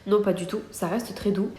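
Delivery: stuffy nose, nasal blocked sound. Real, not acted. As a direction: talk through a blocked nose. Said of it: "j'ai le nez bouché, ça s'entend". (nez bouché)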